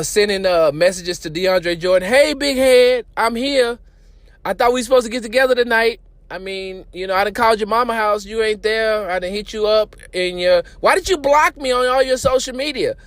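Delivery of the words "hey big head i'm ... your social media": lightly higher, fast clingy texter; mock Mark Cuban. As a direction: play a needy lover begging. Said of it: "Mark Cuban sending messages".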